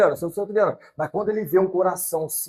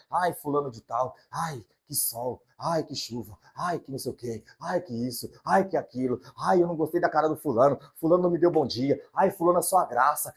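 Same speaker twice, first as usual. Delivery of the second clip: mock whiny gossip. Mocking critical gossip.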